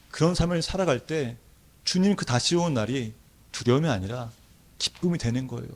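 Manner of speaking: normal talking voice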